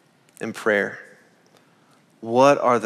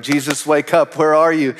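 mock urgent call, a bit louder and higher; apostles' cry; 3 semitones higher, 3 dB louder than usual. Apostles calling to Jesus on the boat, mildly urgent plea. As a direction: call out as if rousing a sleeper. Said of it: "We're like the apostles on the boat".

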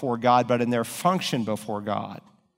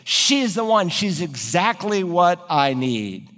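excited exclaim; 4 semitones higher, slower than usual. Retold or imitated. Adam seeing Eve for the first time, delighted high exclaim. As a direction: gush like a smitten groom. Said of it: "Or today he might say".

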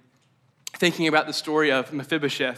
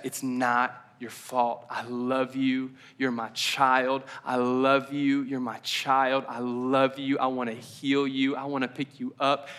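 tender reassurance; slower than usual. Retold or imitated. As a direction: slowly reassure a hurting child. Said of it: "He keeps saying".

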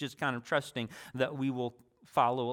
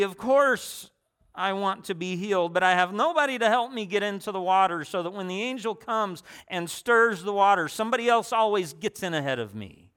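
higher, louder self-pitying whine; put-upon, whiny protest; whining complaint; 4 semitones higher, 4 dB louder than usual. Acted. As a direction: complain like a sick man always beaten to it. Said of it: "hear the whine in the man's voice".

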